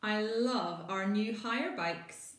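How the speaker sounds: slow, loud happy exclamation; excited yell. Acted. Maggie thrilled with her new hire bike, excited yell. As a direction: shout your delight. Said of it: "Maggie yells".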